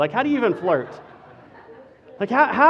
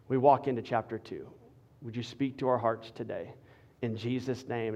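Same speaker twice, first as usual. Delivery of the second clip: low, earnest pastor's prayer, swelling briefly on the sins; opening prayer; 5 semitones lower, 4 dB quieter than usual. Real, not acted. Pastor praying for people stuck in chapter one, earnest prayer. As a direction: pray it low, settling softer towards the close.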